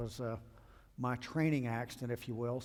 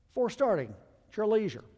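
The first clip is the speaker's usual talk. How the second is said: higher and louder, teasing "leisure"; mocking the captain; 8 semitones higher, 5 dB louder, faster than usual. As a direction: parody his lazy call. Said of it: "He's calling for the before start checklist".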